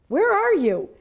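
startled high cry; alarmed question. Retold or imitated. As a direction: yelp it in alarm. Shocked to hear another voice.

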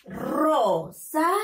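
Rosado in three slow separate beats, RO, SA, DO; teacher's high, slow syllable-by-syllable Rosado. Shown as a demonstration. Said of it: "¿Cómo se lee?".

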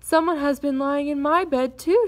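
startled and cross mother bear; surprised, angry cry. A narrator's reading. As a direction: cry out, rising high on "too". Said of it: "she cried, surprised and angry at the same time".

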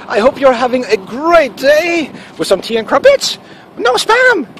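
hammed-up British, slow and high, climbing to a squawk; mock British accent. Host wishing viewers a great day, in a hammed-up British accent. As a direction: exaggerate a high-pitched British caricature. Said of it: "Let me put this in my best British accent".

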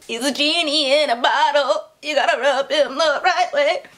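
hammed-up innuendo voice; mock sultry joke. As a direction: play the line as a cheeky wink. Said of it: "I'm in a weird mood today".

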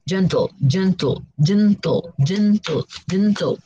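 "gentle" in two even beats, GEN-TLE; syllable by syllable. Shown as a demonstration. Teacher counts two syllables for learners, syllable by syllable. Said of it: "two syllables".

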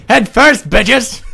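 loud, high, laughing boast; laughing gloat. Real, not acted. Gamer celebrating a head-first win, laughing loudly. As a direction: crow through your laughter.

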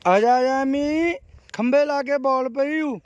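calling the dog. Real, not acted. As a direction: call her over, eager and bright.

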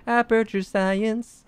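slow drawn-out announcer voice; booming voice from sky. Pretend. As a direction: stretch it like a grand AI announcement. Echoes the bot's Portal quote.

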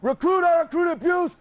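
shouted rule reading; military officer. Real, not acted. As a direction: proclaim the rules like a drill sergeant. Drill instructor reading rules aloud.

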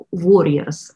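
slipping into a Russian accent. Real, not acted. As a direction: let a Russian accent come through. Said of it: "the Russian accent comes out".

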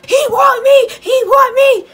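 very high, loud squealing chant; giddy high-pitched cheer; gleeful squeal. Retold or imitated. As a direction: squeal it like you just won. Gleeful celebration.

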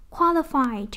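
"qualified" with QUAL hit, then falling; stress on first syllable. Shown as a demonstration. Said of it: "nhấn âm một".

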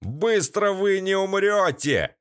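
high, slow sneering threat with a laugh in it; nasal thug. A narrator's reading. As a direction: gloat over the trapped men. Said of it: "заржал гнусавый". (гнусавый злорадный голос)

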